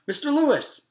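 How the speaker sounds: high, piercing full shout; very loud shout. A narrator's reading. Girl shouts through the door at the painting teacher, full shout. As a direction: shout it so the whole building hears. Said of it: "she shouted so loud".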